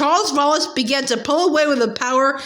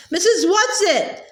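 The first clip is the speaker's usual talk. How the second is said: a higher, pleading call into the void; despairing call; 5 semitones higher than usual. Acted. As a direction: call out for her, losing hope. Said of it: "Meg called despairingly".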